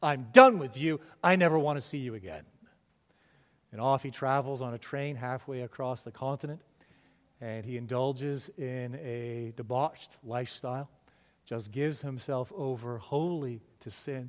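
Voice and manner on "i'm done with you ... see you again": furious, very loud scream of rage at full volume. Telling a story of a young man storming out: screaming in rage. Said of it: "screams at the top of his lungs".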